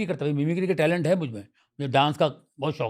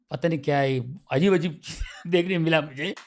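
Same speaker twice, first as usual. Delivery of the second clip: normal talking voice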